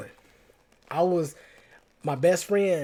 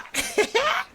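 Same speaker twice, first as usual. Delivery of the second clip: high laugh. Real, not acted. Laughs at own accent switch.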